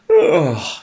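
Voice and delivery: yawning sleepy oh. Acted. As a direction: stretch the oh into a big yawn. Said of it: "yawned Bear".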